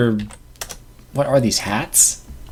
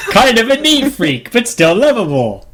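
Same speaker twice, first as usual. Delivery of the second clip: flat robotic Pokédex entry; Pokédex monotone voice; 8 semitones higher than usual. Pretend. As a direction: read it like a device. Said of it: "use that monotone voice and describe it".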